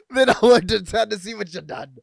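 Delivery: normal talking voice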